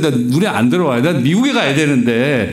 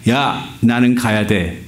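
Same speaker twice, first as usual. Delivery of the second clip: posing grandly; 3 semitones lower than usual. Retold or imitated. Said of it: "폼 잡고".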